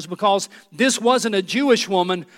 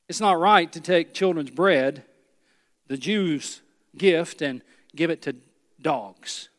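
a hint of a cold religious insider, dragging out the insult; Pharisee's rebuke; 3 semitones lower, slower than usual. Preacher voicing Jesus playing a Pharisee, mild scorn. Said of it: "That's what a Pharisee would have said".

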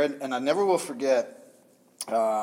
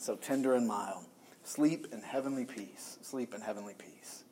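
hushed Silent Night; 4 semitones lower, 7 dB quieter than usual. Acted. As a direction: lower and softer, fading almost to nothing. Reciting Silent Night, heart far away.

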